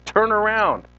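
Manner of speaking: mother yelling. Retold or imitated. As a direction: imitate mom's command, half yelled. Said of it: "she's yelling at me".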